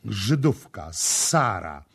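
high, aggrieved protest; high-pitched reproach with punched openings; indignant complaint. Acted. Rival woman's jealous complaint in story.

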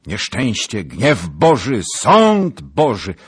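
loud cry of doom, rising; alarmed outcry. A narrator's reading. Rider warns Zagloba of disaster, alarmed outcry. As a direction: build to a high, drawn-out wail.

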